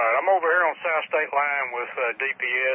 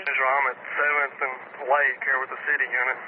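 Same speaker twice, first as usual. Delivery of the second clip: police radio. Real, not acted. Dispatch traffic over police radio.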